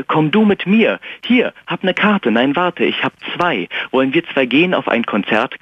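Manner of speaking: höher, eifrig einladend; eager invitation. Retold or imitated. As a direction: lade sie ein bisschen übereifrig ein. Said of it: "Ich sagte". (leicht gespielte, höhere Einladung)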